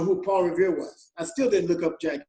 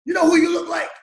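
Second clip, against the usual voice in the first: imitated shout, pitched higher and louder; excited exclaim; 9 semitones higher, 5 dB louder than usual. Paul stopping Bruno at the door, a mock excited shout. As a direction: burst out with the discovery. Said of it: "He goes".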